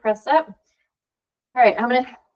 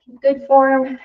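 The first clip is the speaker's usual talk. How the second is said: ordinary delivery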